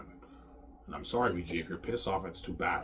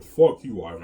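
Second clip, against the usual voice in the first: mock angry yell; 13 dB louder than usual. Ex-girlfriend cursing him out, loud mock yell. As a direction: bark it out like she's furious at him. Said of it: "She's like".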